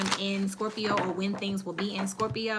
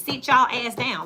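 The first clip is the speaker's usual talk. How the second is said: stern command; 3 semitones higher, 6 dB louder, slower than usual. Retold or imitated. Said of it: "That's the only thing they responded to".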